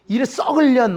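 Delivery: lightly acted curse; mock cursing. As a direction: imitate a parent swearing at a child. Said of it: "이렇게 욕을".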